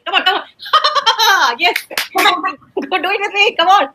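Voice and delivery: hearty put-on laughter while coaching; demonstrated laughing. Shown as a demonstration. Teacher gets pupil to imitate a laughing cartoon, put-on laughing. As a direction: laugh big and coax them to join in. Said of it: "we have to imitate this".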